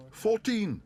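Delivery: high, loud shouted bid. A narrator's reading. Bear shouts a bid across the hall. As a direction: shout it out eagerly. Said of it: "shouted Paddington".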